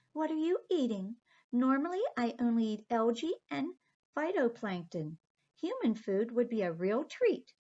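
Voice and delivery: high, sweet little mermaid. Acted. Aqua the mermaid politely telling the children she must go home, high voice. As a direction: lift the voice up high for the tiny mermaid. Aqua asks about lunch.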